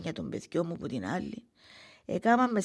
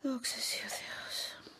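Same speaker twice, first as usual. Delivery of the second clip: relieved thanks; 7 semitones higher, much slower than usual. Acted. Relief after hearing children are well.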